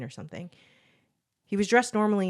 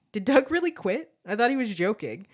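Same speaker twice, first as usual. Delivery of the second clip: surprised disbelief; 5 semitones higher, 6 dB louder than usual. A narrator's reading. Student shocked that Doug quit.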